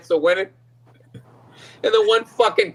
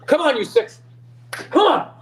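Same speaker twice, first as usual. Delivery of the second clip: mock racetrack urging; 5 semitones higher than usual. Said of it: "What about that dude".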